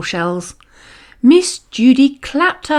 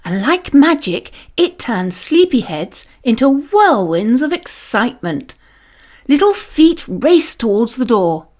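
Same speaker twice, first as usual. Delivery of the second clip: plain reading voice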